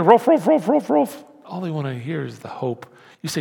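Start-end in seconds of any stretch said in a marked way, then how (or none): 0.0-1.2 barked ruffs, higher and louder; mock dog barking. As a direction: bark at the world. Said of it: "people don't wanna hear".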